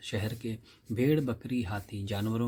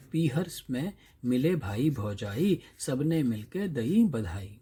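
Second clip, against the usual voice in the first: slow, measured folk rhyme; drawn-out teacher's verse reading; poem recitation; slower than usual. Acted. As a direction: recite it line by line, unhurried, for a class.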